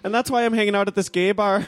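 smooth-talking Irishman; Irish accent. Pretend. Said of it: "I'll play the role of the Irish guy".

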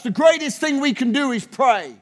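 building fervent sermon cadence; preaching at full force. Acted. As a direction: hammer the refrain like a revival preacher. Preaching refrain on prayer.

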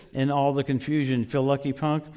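low, subdued tough-guy line; half-hearted movie tough guy reading his lines; Clint Eastwood. Acted. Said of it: "it'd be weird if Clint Eastwood goes like this".

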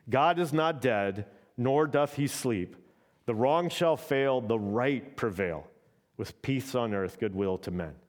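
slow, measured reading of hymn words; hymn recitation. Acted. Preacher to congregation, quoting a Christmas hymn, slow and solemn. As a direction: read the carol lines slowly and solemnly. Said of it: "I Heard the Bells on Christmas Day".

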